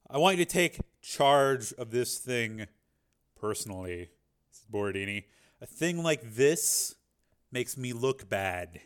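slow, heavy boss orders; a hint of a menacing godfather; lightly voiced mob boss. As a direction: boss ordering his son to kill. Borodini orders his son.

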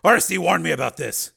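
loud, agitated grumbling; angry complaint. Acted. Man rants about being hounded.

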